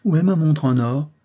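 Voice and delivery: put-on a boy excited to show his watch; child's eager cry. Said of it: "s'écria George".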